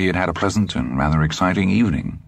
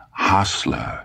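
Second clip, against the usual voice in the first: gentle correction; 3 semitones higher than usual. Acted. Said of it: "Dussander corrected gently".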